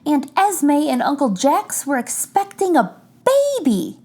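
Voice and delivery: put-on gentle read-aloud for children; story narration. A narrator's reading. Reader sharing a picture book with children, gentle. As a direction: read it like bedtime story time.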